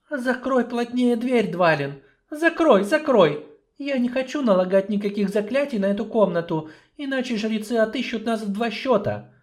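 lightly voiced dwarf confiding; hushed dwarf. Dwarf confiding his secret to the sorceress.

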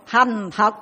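slow, loud, grave condolence; monk gravely offers condolences at a wedding, slow and solemn. Retold or imitated. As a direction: deliver it like a funeral blessing.

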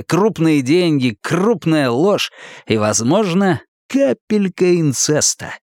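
slow, teasing sales pitch; brash ex-cop voice. Acted. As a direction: tempt him with the case. Хардвик заманивает Гурни делом. (заманчивый голос бывшего копа)

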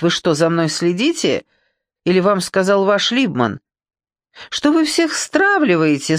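indignant. Acted. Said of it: "негодующий Фирин голос".

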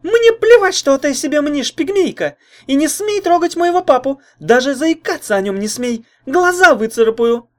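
very high, loud spitting fury; vicious threat. A narrator's reading. Jealous girl threatens her rival, high and loud. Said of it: "зашипела Лайда".

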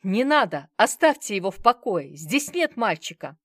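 loud, desperate plea; shouting. Acted. The manager begging the thugs to stop, loud shout. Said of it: "и закричал".

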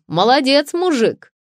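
high, loud cheer from an onlooker; admiring exclamation. A narrator's reading. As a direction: applaud him aloud. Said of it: "воскликнул кто-то".

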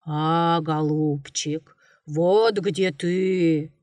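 low, slow growling bear voice; a mild, lightly voiced bear roar. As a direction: drag it out like a lumbering bear. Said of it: "заревел медведь".

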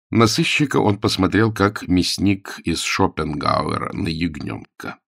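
plain reading voice

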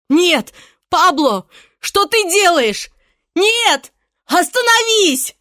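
high, loud frightened cry; terrified plea. A narrator's reading. Irene dragged upstairs, terrified cry. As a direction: beg him to stop.

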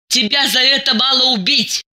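high-pitched angry outburst; hateful cry. A narrator's reading. Diana turns on her friend with hatred, crying out. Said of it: "закричала она".

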